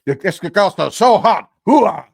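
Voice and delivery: loud, high mock Pacino bark ending in a hoo-ah. Reading the complaint as Pacino doing Jimmy, hammed-up shout. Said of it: "Al Pacino".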